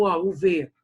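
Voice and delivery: ordinary talk, nothing marked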